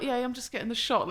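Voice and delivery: breezy brush-off. Retold or imitated. Injured photographer to worried onlookers, breezy brush-off. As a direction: rattle it off as if the injury were nothing. Brushing off her bleeding hand.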